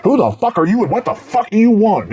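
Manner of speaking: high-pitched mock hillbilly woman. Fan imitating the hillbilly neighbor woman, pitched high. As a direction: snarl it like the cranky neighbor. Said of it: "She goes".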